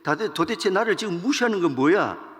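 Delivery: angry king. Acted. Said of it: "막 화가 나가지고".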